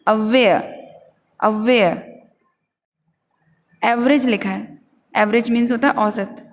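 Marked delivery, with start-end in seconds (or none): 0.1-2.0 अवेयर stressed on WAY, silent r; teacher models अवेयर as uh-WAY-uh; word stress. Shown as a demonstration. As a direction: lean on the second syllable, "uh-WAY-uh", in अवेयर. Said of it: "जोड़ देना है".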